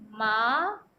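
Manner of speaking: माँ said with the vowel through the nose; nasal vowel in माँ; nasalized maa. Shown as a demonstration. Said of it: "नाक से भी वायु आ रही है".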